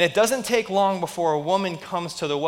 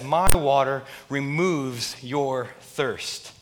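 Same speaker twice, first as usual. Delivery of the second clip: slow and gentle; much slower than usual. Retold or imitated. Jesus voiced slowly.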